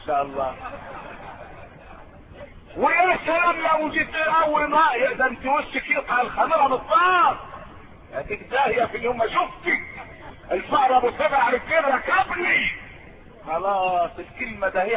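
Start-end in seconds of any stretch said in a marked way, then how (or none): 2.8-12.7 grumbling insults. Acted. A husband curses his wife at dawn, mock-scornful. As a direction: hurl curses at the wife, hammed-up.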